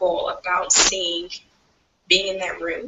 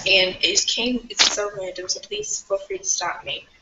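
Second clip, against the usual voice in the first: muffled, as if through a hand. Real, not acted. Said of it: "you're kinda muffled".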